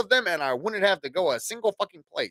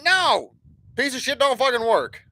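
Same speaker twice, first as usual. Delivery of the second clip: retold angry yell; 6 semitones higher than usual. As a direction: snap at the broken machine, half acting it out. Retold yelling at broken machine.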